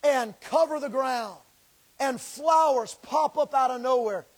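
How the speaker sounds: earnest pleading prayer, rising and falling; fervent prayer. Real, not acted. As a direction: pray it out over the people. Preaching prayer over the congregation.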